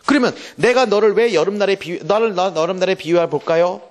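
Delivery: ordinary talk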